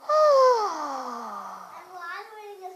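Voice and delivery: long audible sigh letting the breath out; demo exhale sigh. Shown as a demonstration. Yoga teacher showing kids how to let breath out with a sigh. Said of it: "Take one more deep breath".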